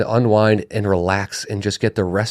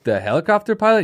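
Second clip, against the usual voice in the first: baffled question; 7 semitones higher than usual. Retold or imitated. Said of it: "And I go".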